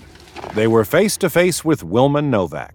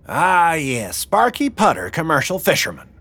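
higher mocking old woman; sly, amused, savoring his name; Wilma's voice; 8 semitones higher than usual. A narrator's reading.

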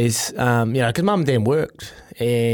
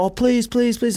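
retold pleading; 10 semitones higher than usual. Little brother begging to come.

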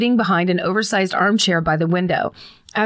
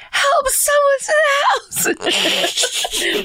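high strained whisper-shout for help; urgent hushed yell; much slower than usual. Retold or imitated. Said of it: "I whisper yelled as desperately as I could".

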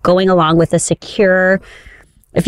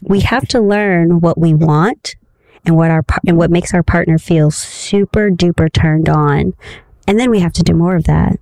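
erotica voice. Pretend. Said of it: "read this in my best erotica voice".

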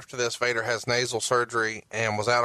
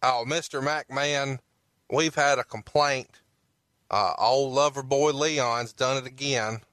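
a lightly voiced, slowed, fawning agent reporting to the boss; groveling agent. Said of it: "Okay, I'm a fucking agent".

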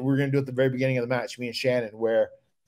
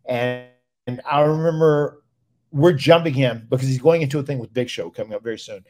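normal talking voice

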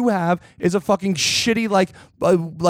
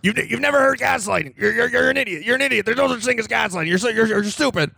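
higher, sneering put-on voice; mock gaslighter; 4 semitones higher than usual. Mocking friends by playing the gaslighter. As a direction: taunt them as a fake denier.

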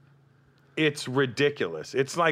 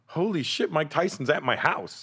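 stunned disbelief; 6 semitones higher than usual. Retold or imitated. Tyson stepping out of his car.

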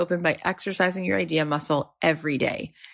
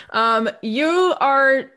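higher-pitched, excited host plug; real excited admiration, pitched up; gushing enthusiasm; 4 semitones higher, 4 dB louder than usual. Real, not acted. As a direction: gush over your guest as you plug the book. Host gushes over guest, plugs book.

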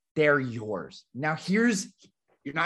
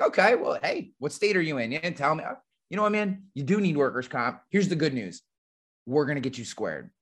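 reassuring agent. Retold or imitated. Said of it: "And I'll be like".

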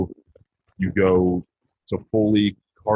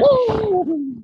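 high, loud sarcastic whoop; excited whoop; 5 dB louder than usual. Acted. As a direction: cheer it out like a fan. Mock cheer again.

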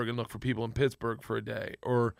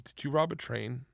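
daughter's flat, softly put question; flat delivery; 4 dB quieter than usual. Retold or imitated. Young daughter questioning her dad, real flatly. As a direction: ask it deadpan, no alarm. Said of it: "Georgia real flatly goes".

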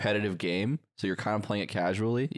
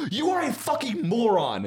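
high-pitched hammed-up insult; mock angry yell; 13 semitones higher, 4 dB louder than usual. Friend retelling Yingling's insult, mock angry yell. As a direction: imitate a gamer yelling in outrage. Retold insult during a game.

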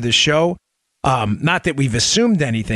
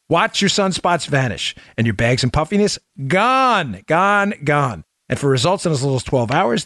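infomercial. Acted. Sponsor read.

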